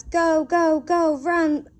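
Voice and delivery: loud barked order to run; drill sergeant yell. Retold or imitated. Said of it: "all the drill sergeants were yelling at us".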